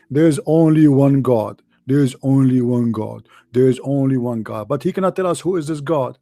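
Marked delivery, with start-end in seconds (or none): 0.1-4.7 mocking repetition. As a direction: parrot it over and over, a touch mocking. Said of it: "He keeps saying".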